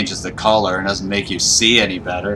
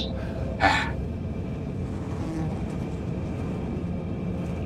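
breathless exhale; 7 semitones higher, 13 dB quieter than usual. Real, not acted. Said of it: "Out of breath".

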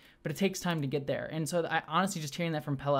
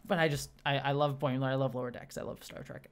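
heartfelt, fading away almost to a whisper; real, tender near-tearful murmur; a little choked up; 2 semitones lower, 3 dB quieter than usual. Real, not acted. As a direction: let the emotion shrink the voice to nearly nothing. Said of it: "I'm gonna cry a little bit".

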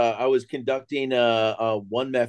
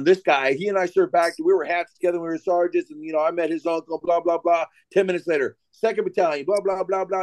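lightly mimicked droning roll call, slightly higher; sergeant major speech; 4 semitones higher than usual. Storyteller mimicking a sergeant major praising each battalion, lightly imitated drone. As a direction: rattle off a lightly imitated long-winded speech.

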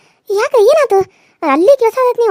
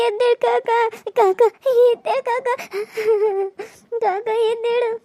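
grieving sobs; 4 semitones higher than usual. Acted. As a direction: plead with the dead through tears. Nephew grieves, calls uncle.

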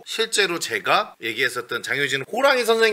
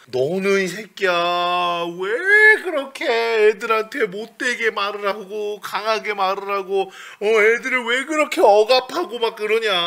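scolding mother; 7 semitones higher than usual. Retold or imitated. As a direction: imitate a mother nagging on and on. Acts out mother scolding her.

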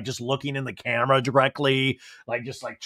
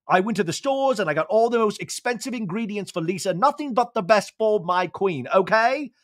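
higher, hammed-up jittery voice; nervous James; 5 semitones higher than usual. James fussing over dinner for Lisa, in a mock nervous high voice. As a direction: play him flustered about cooking for his boss. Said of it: "he's like".

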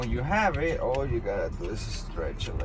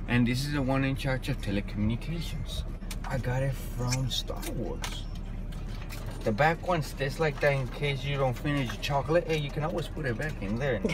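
infomercial voice; 4 dB quieter than usual. Pretend. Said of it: "You sound like an infomercial".

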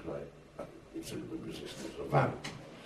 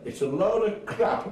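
higher, slow, dismissive boss; scornful boss; 10 semitones higher, 4 dB louder, slower than usual. Retold or imitated. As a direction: drag it out with scorn. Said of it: "And he said".

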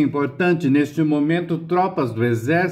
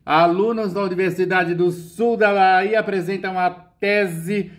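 ordinary delivery

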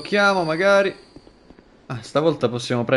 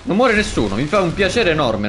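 relieved cheer; 5 semitones higher, 5 dB louder, faster than usual. Real, not acted. Relief nobody dies.

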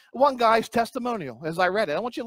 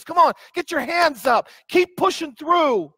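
coach; 6 semitones higher than usual. Retold or imitated. Coach voice on the verse.

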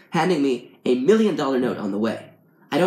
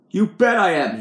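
raised, high, angry yell; loud narrated scream; screamed retort; 7 semitones higher, 6 dB louder than usual. A narrator's reading. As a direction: yell it back at him, voice jumping up. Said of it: "he screams".

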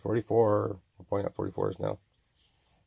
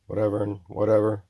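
a louder, punched "whatever"; just loud; 4 dB louder than usual. Shown as a demonstration. Showing the listener the loud take of "whatever". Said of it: "That was just loud".

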